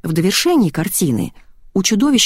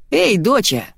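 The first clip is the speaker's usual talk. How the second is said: exclaiming; 4 semitones higher than usual. A narrator's reading. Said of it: "воскликнул он".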